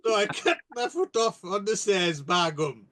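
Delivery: put-on broad Yorkshire accent; northern accent. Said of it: "you said it in a northern accent".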